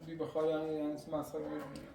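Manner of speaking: low, quiet, dejected voice; subdued complaint. Acted. Worrying that people will mock them, subdued complaint. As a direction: say it softly and low, drained. Aftermath of the quarrel.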